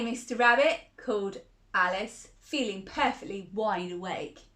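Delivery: gentle storybook telling; reading to a child. Acted. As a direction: read it like a bedtime story.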